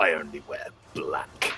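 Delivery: very low, quiet mutter under the breath. Answering a robe creature in character, muttered under the breath. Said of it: "Obsidian will just say under his breath".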